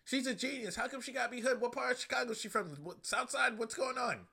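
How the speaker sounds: incredulous rant. Retold or imitated. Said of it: "I was like".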